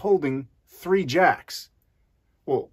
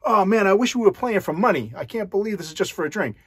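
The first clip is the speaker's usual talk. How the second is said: higher, mock-gleeful bragging; excited gloat; 6 semitones higher than usual. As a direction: crow over the hand a little. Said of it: "He's super excited".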